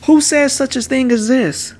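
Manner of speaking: high-pitched narrated demand. A narrator's reading. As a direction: demand an answer as the objecting leaders. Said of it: "they demanded".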